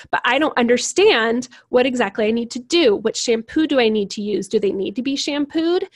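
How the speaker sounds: acted parent, a touch of frustrated bewilderment; mildly frustrated. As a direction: press for exact details, mildly exasperated. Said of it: "The sensing parent will get frustrated".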